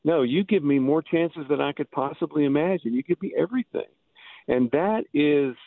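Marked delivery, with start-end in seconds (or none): 0.0-3.9 higher-pitched, wondering address to Jesus; amazed gratitude. Acted. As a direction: marvel at an undeserved gift. Acted address to Jesus at the cross.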